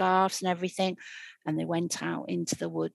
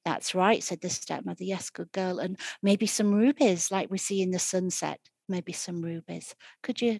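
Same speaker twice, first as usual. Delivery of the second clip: sickly sweet voice. Acted. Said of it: "her sickliest, like, sweetest, sickliest voice".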